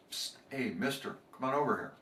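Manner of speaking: soft, secretive beckoning; hushed parrot call. Acted. Parrot hushes to the customer, a sly quiet call. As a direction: lure him over on the quiet.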